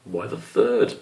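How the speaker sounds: high, curious little question; a puzzled child; young squirrel voice. Acted. Squish asking his father why, high and curious.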